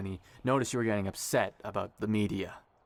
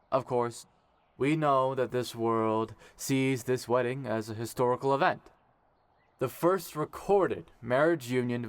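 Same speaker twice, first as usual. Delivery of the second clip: wedding officiant speech. Acted. Kai officiating the ceremony.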